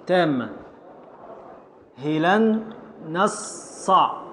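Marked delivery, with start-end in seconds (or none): 2.0-4.2 هلن نصع drawn out very slowly, syllable by syllable; scansion syllables. Shown as a demonstration. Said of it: "هلن نون الأولى". (تقطيع بطيء جدا لـ هلن نصع)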